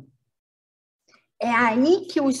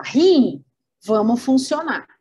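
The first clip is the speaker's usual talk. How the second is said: louder, commanding call to the kidney; calling out an order; 2 semitones higher, 5 dB louder than usual. Acted. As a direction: summon the kidney like a boss. Brain orders kidney to work.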